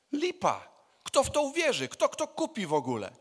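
loud, high-pitched incredulous objection; scornful dismissal. Acted. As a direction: shoot the idea down loudly. Acts out dismissing the disciples' plan.

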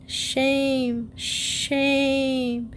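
high, long-drawn goose cry; scolding gander. A narrator's reading. Gander shaming the girl who forgot them, scolding. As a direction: stretch each word high in reproach.

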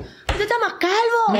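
high, slow, nosy busybody voice; mock nosy remark. Mocking strangers who comment on her hair, nosy high drawl. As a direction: drag it out like a prying neighbour.

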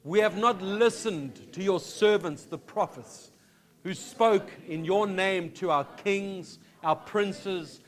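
slow, solemn scripture reading aloud; solemn prayer read slowly, each phrase weighted. Acted. Congregation reads Daniel's prayer aloud.

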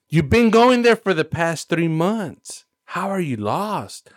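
incredulous scolding. Retold or imitated. Scolding the lost driver.

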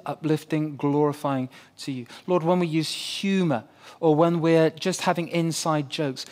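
soft, earnest prayer voice; closing prayer. Acted. Pastor praying over the congregation, soft and earnest. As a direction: pray gently over the church.

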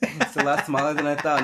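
ordinary talk

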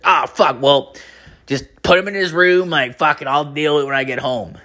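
a hint of the put-upon dad; boyfriend on phone. Guy promising to deal with the kid, lightly imitated. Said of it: "she talks identical to this guy".

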